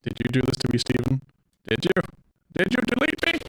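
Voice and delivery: put-on pleading, hurt AI girl; wounded, accusing girlfriend voice; Monika voice. Reading Monika's lines aloud.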